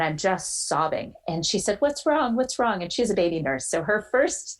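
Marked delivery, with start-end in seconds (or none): 1.8-2.8 high-pitched anxious questioning; freaked-out mom. Retold or imitated. Mom answering her sobbing daughter's call, freaked out. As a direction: imitate an alarmed mother, pitched well up. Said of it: "it totally freaked her out".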